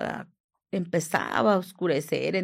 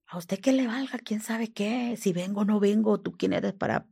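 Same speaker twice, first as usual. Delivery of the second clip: higher-pitched imitation of irritated scolding; retold indignant rebuff; 3 semitones higher than usual. Man refusing to say if he returns, retold indignation. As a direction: quote a man bristling at being questioned.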